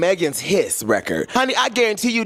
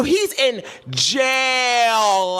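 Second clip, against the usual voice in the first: mock drawl; 3 semitones higher, much slower than usual. Mocking a rapper.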